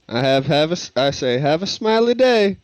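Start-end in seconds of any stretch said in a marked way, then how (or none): 1.4-2.6 higher-pitched, sing-out goodbye; chirpy farewell. Acted. Player wishes the guards a smiley day, chirpy. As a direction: toss out a cheery sign-off.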